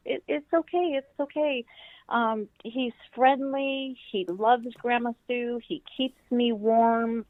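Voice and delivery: calm a scared little one; reassuring. Retold or imitated. Grandma calming scared granddaughter.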